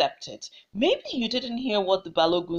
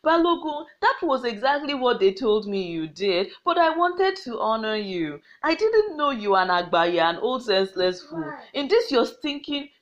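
mocking. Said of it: "started to mock the Balogun".

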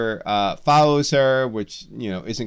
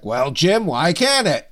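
Stan Lee challenge; 5 semitones higher than usual. Retold or imitated. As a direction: pitch rising playfully into the question. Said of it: "He turned to Jim Shooter, the editor-in-chief of Marvel, and was like".

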